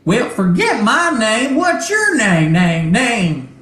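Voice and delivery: high, loud, stuttering robot voice. Acted. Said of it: "a robotic voice come over and goes".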